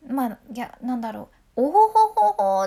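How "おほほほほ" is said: mock oho laugh. Shown as a demonstration. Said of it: "って笑うやつ".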